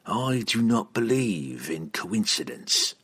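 slow, measured villain's answer; lightly voiced assassin, taking his time; cool assassin.

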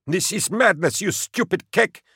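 a frightened driver yelling at his commander; bellowed. Acted. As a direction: bellow it at him in panic. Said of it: "Tuvant bellowed".

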